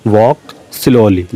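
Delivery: drawn out word by word, very slowly; slow dictation. Shown as a demonstration. Teacher repeating the English phrase for learners, very slow. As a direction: say it again very slowly for the class. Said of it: "repeated very slowly for dictation".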